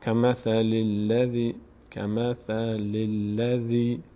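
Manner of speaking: کمثل الذی in one connected slow chant; measured recitation, kamathalilladhi unbroken; joined lam. Shown as a demonstration. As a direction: glide through the double l without stopping. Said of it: "سریع رد بشید".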